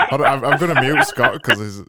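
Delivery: laughing. Real, not acted. Laughing while muting.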